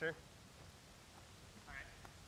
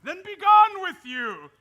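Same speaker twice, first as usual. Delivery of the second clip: booming command to leave; loud dismissal; 10 dB louder than usual. Acted. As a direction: throw him out with a shout. Knight is sent away.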